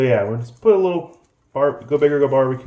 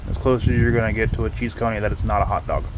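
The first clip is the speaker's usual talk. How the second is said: talking with mouth full; faster than usual. Real, not acted. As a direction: speak through a mouthful of food. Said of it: "Sorry for eating with my mouth full".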